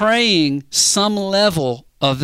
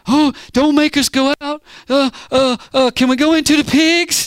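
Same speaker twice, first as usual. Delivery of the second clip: high, whiny begging voice, a bit louder; pleading demons; 9 semitones higher, 4 dB louder than usual. Retold or imitated. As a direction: beg like cornered demons, pitched way up. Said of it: "they started talking back".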